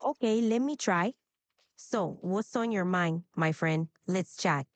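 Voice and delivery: Hispanic-accented English. Shown as a demonstration. Assistant trying an accent for user, Hispanic accent. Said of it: "a Hispanic accent".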